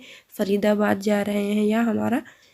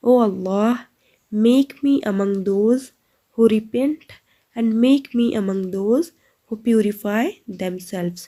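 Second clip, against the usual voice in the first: slow translation; 3 dB louder, much slower than usual. Shown as a demonstration.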